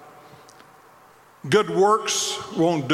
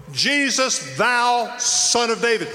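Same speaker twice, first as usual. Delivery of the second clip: a touch higher, slow called-out cry; yelling; 4 semitones higher, slower than usual. Retold or imitated. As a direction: call his name out in faith. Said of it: "And so he yells".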